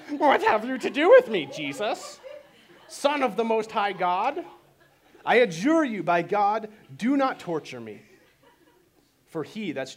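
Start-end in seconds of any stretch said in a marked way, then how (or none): 0.1-8.0 demoniac crying out. Acted. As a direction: cry out at Jesus as the demon-possessed man. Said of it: "that's how he talks".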